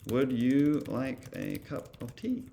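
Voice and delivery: slow, lightly voiced English gentleman offering tea; a hint of a polite British host, taken slowly; teacher playfully imitating a UK English male voice, slowly; mock British gent. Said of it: "Maybe he would be like".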